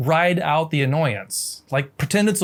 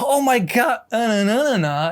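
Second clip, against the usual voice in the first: sudden realization; 7 semitones higher than usual. Retold or imitated. Realizing the accent was intonation.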